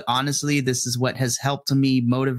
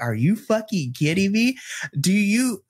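higher, exasperated outburst of a fed-up teacher; angry inner voice; 7 semitones higher than usual. Retold or imitated. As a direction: let the inner rage out, pitched up. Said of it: "this is the internal translation".

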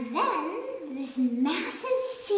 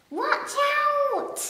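high, mildly raised cry of warning; shouted warning; 11 semitones higher, 5 dB louder than usual. A narrator's reading. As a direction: call out a sudden warning. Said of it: "the Duke shouted".

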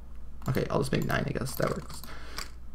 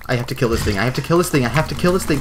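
building determination; 3 semitones higher, 6 dB louder, faster than usual. Real, not acted. Gamer deciding to fight the ogre, building determined repeats. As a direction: psych yourself up, rising each time.

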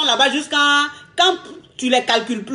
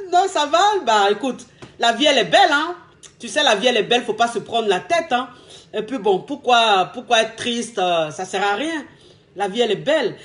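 serene, unbothered reassurance; carefree and easy. Shown as a demonstration. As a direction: wave it off like life is sweet. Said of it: "Tu vas lui dire".

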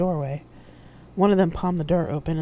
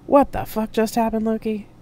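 startled demand; 7 semitones higher, 6 dB louder than usual. A narrator's reading. Sudden teleport, alarm.

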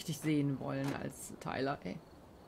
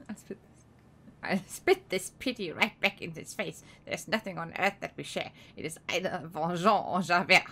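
lightly voiced cartoon beaver; a hint of a buck-toothed beaver, half sung. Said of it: "in der Biberstimme".

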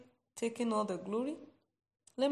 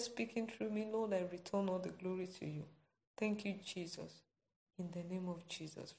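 prayer. Real, not acted. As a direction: pray humbly before the congregation. Leads closing prayer.

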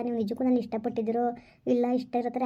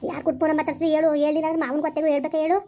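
angry demand; 3 semitones higher, 3 dB louder than usual. Acted. Sister-in-law demands who called.

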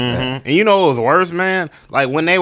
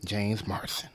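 slow mock radio announcer read. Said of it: "I can read it to y'all in radio voice".

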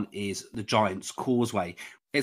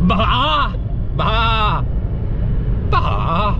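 mock sheep bleat in a Northern Irish accent, higher; playful Irish sheep baa, louder; 10 semitones higher, 6 dB louder, much slower than usual. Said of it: "if they bar Irish".

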